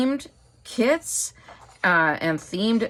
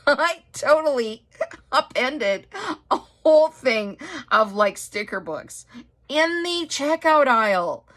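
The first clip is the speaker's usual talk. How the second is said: laughing while telling; 8 semitones higher than usual. Real, not acted. Laughing at own clumsy mishap.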